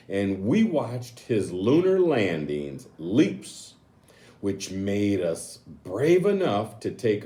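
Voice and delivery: put-on lightly storybook read-aloud to kids; reading to children. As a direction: read the picture book page to the class. Reads picture book aloud.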